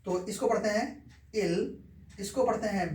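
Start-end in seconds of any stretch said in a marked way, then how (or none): 1.4-1.8 "इल" with a brief, light i; short i. Shown as a demonstration. Teacher reading a short-i word for students, demonstrated short i. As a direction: say "इल" with a short i, not ee. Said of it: "छोटी ई में".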